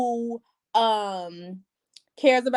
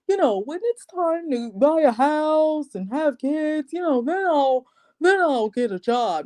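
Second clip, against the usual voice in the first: lightly mock his easy-going promise, higher and unhurried; mimicked groom; 5 semitones higher than usual. Jobless groom putting off work, mimicked carefree voice. Mimicking Steve's unconcerned job talk.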